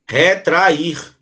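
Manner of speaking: "Retrair" syllable by syllable, re-tra-IR; separated vowels. Shown as a demonstration. Teacher shows the A separating from I, split "Retrair". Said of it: "ele vai separar do I".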